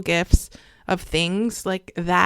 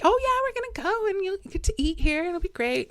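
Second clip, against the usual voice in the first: higher, softer voice, imitating a soothing mom; retold cheery reassurance; 9 semitones higher, 5 dB quieter than usual. Mom playing along with his world, reassuring. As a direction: gently play along, light and high. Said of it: "she was like".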